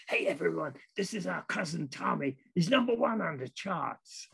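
amateur New Jersey twang; New Jersey accent. Retold or imitated. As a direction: announce it to the bar like a proud New Jersey relative. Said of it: "That sounds New Jersey".

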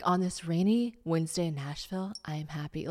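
hushed, dreamy poet voice; mock poetic reading. Shown as a demonstration. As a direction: read it like a self-serious poet. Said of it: "like, I am a writer".

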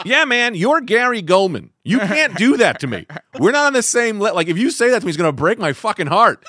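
high, loud, laughing over-the-top plea; mock wounded protest. Comedian retelling his high loud laughing plea to Gary. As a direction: ham up being heartbroken, half laughing. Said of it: "But I'm like".

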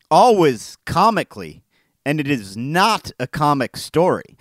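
usual speaking voice

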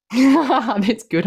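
laughing through the words. Real, not acted. Presenter glad listeners are laughing, amused laugh. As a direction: speak through a real chuckle.

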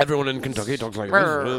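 deep mock movie-star voice; Johnny Depp impression. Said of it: "Your Johnny Depp impressions are phenomenal".

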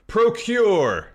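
high, loud imitated wrestler's bellow; hammed-up, drawn-out holler; yelling. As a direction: yell it out like a wild promo. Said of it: "starts yelling".

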